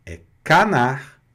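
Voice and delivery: canar said slowly, oral A, no nasal; correct French. Shown as a demonstration. Teacher giving the right canard.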